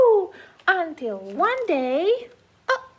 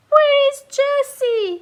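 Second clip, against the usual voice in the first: high, slow worried call; calling pet; 5 semitones higher, 4 dB louder, slower than usual. Acted. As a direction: call out for the lost friend. Pets calling for Jesse.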